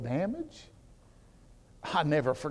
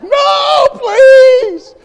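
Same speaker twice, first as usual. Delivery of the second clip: put-on loud, high crying plea of a child; a kid screaming no, please before a spanking; child's crying plea; 17 dB louder than usual. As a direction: beg through tears not to be spanked. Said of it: "I was like".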